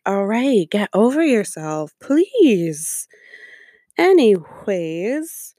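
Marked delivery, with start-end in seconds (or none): 0.0-3.1 exasperated. Retold or imitated. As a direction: roll your eyes through it. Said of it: "it's just like".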